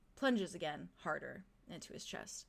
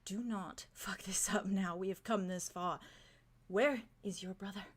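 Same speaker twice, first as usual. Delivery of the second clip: stern whisper. Acted. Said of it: "fixes you with a stern look".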